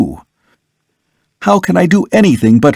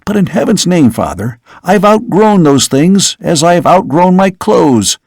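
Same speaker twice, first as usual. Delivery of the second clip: higher, heated insistence; a hint of outraged young man; indignant son; 4 semitones higher than usual. Son rejecting the vampire accusation, higher and heated.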